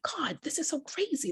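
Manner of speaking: breathy whisper to herself; whispered thought. Retold or imitated. To herself while watching Oprah on stage, whispering. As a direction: whisper it in disbelief. Thinking inside a crowded theatre.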